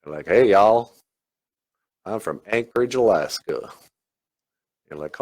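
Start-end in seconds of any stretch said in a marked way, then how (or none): 0.3-3.7 put-on Southern accent. Joking about Alaskans who say y'all, mock Southern accent. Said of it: "like, a Southern accent?".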